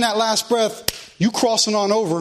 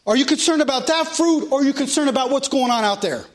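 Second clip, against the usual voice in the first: raised, steady scripture-reading cadence; preaching; 5 semitones higher than usual. Real, not acted. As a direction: preach it out to the congregation in long, driving phrases. Preaches to the congregation.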